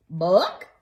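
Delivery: short clucking book; polite cluck. Acted. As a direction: cluck it like a hen. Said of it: "clucked the hen politely".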